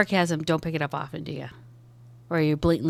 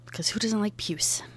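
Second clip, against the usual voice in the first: sarcastic whisper; 6 dB quieter than usual. Acted. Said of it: "You don't deal with sarcasm".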